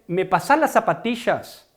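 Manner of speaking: "zapatillas" with a Rioplatense sh for ll; River Plate demo, "zapatillas" with a sh sound; Rioplatense accent. Shown as a demonstration. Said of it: "Ellos dicen". (acento rioplatense, "zapatillas" con sh)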